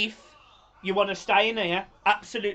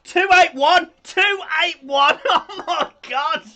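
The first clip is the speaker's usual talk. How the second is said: excited calling out; 8 semitones higher, 7 dB louder, slower than usual. Real, not acted. Count climbing, excited calling out.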